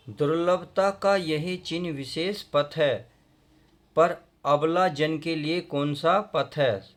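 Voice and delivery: slow, measured verse reading; poem recitation. Acted. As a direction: recite the couplet with drawn-out words. Reads verse before explaining. (धीमा कविता पाठ)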